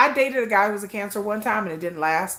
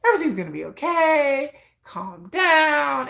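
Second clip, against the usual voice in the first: reassuring calm-down; 5 semitones higher than usual. Retold or imitated. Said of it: "I need somebody who's very, like".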